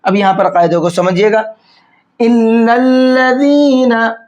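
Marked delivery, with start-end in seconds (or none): 2.2-4.2 इल्लल्लज़ीना drawn out slowly with a soft dal, no whistling z. Shown as a demonstration. Teacher demonstrates इल्लल्लज़ीना with a soft dal and no hiss. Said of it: "दाल को soft करके नरमी के साथ में पढ़ना है".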